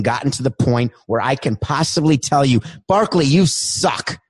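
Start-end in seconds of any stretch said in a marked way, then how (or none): 2.9-4.2 taunting. Acted. Taunting Barkley, slowed.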